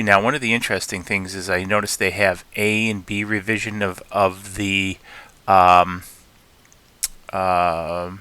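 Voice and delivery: halting, repeating words; stuttering. Real, not acted. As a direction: stumble over the words. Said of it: "I'm stuttering here".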